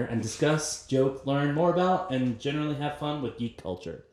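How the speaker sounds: running out of breath mid-intro; breath running out at the end; losing breath. Real, not acted. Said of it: "Sorry, I lost my breath a little there".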